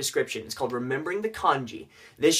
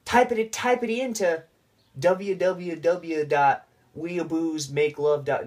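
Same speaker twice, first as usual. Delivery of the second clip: slow dictation; 3 semitones higher, much slower than usual. Pretend. Slow joke URL dictation.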